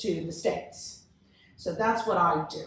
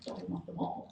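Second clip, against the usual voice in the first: laughing retort; 11 dB quieter than usual. Retold or imitated. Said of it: "I'm like".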